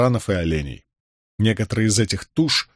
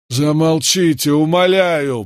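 frightened plea, slow, high and raised; испуганная мольба; 6 semitones higher, 4 dB louder, slower than usual. A narrator's reading. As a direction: beg them in fear to stop, voice lifted. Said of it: "голос его дрожал". (умоляя от страха, протяжно)

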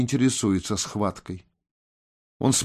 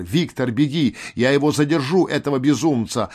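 urgent cry; 3 semitones higher than usual. Acted.

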